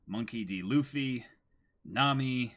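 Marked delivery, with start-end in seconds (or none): none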